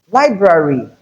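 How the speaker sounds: library as LIE-bra-ry; both Rs kept. Shown as a demonstration. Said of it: "two R's".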